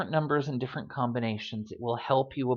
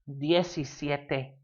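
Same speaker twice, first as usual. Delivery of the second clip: slowed-down DIECISIETE; slower than usual. Shown as a demonstration. Slow model before combining.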